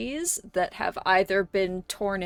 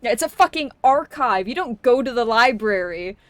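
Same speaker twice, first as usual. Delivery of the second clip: louder, heated rant; ranting loudly; 6 dB louder than usual. Real, not acted. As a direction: rant about the archive with real heat. Ranting about AO3 algorithms.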